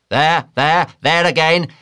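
high, loud whale cry building; climbing to a full high yell; excited shouting. A narrator's reading. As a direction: urge the rowers on at a shout. Boat officer urging crew at whale.

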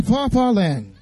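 dreamy fairy-tale phrase; storytelling echo. Shown as a demonstration. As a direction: draw out the faraway land. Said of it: "Everyone say".

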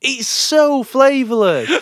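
high, slow, laughing complaint; laughing whine. Real, not acted. Ranting to a friend about chili, laughing and whining. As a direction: whine it again through a laugh.

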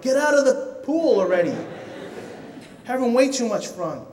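mock-exasperated dad; half-joking shout to get out; calling out to kid. Calling son out of pool.

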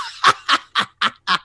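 high wild cackle rising out of the joke; maniacal cackle. Acted. Joker cackling at Batman. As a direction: cackle like a madman at his own gag.

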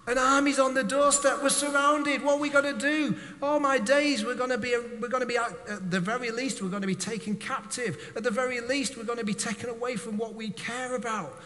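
the terrified servant blurting out his fears; panicked servant. Acted. Servant panics at surrounding army.

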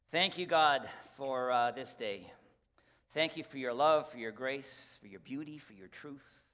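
closing prayer. Acted. Pastor praying over the congregation, earnest and unhurried.

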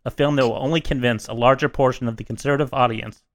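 a lightly solemn prepared statement read aloud; mock formal statement. Opening the podcast with a mock suspension statement, lightly solemn. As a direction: read it like a grave apology, barely playing it up.

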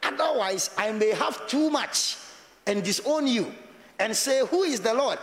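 rising on Otherwise and Who is the Lord; lightly dramatised verse; scripture quoted. Shown as a demonstration. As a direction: read the verse with lifted emphasis. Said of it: "Reason number one".

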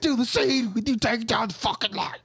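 high squeaky chipmunk voice. Acted. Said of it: "Stop doing the chipmunk voice".

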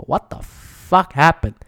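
slow, stunned, drawn out in disbelief. Retold or imitated. Trader staring at his crashed stocks, slow stunned disbelief. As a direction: stare at the screen and drag it out. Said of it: "look at this and go".

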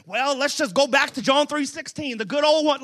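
mock Southern preacher; easygoing Southern churchman parody; Southern accent. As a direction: lay on a folksy Southern accent. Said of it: "this is a Southern voice".

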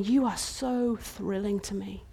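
soft tender declaration. Acted. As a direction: speak it gently to her. King speaks tenderly to bride.

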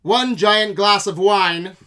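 slow, loud vintage announcer; hammed-up newsreel delivery; old-timey voice. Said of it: "old-timey voice".

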